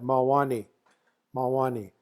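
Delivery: "Mawani" said as maWAni; "Mawani", stress on WA, falling away at the end; second-syllable stress. Shown as a demonstration. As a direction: model "Mawani" for the group, stressing the middle syllable. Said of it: "you just go like this".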